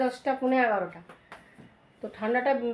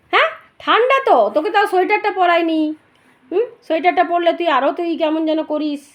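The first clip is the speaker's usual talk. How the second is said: high pet talk; 7 semitones higher, 10 dB louder than usual. Real, not acted. Fussing over the dog scratching in its shirt, high cooing pet talk. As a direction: coo up high and loud like scolding a pet gently.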